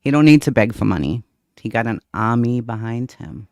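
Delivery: lightly imitated Boston accent. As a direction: put on a thick Boston accent. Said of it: "With her thick Boston accent?".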